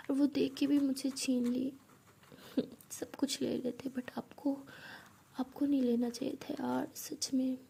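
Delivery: hushed, tearful voice breaking off; tearful talk to mother. Acted. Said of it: "तो ईशानी ऐसे कह के रो रही होती है".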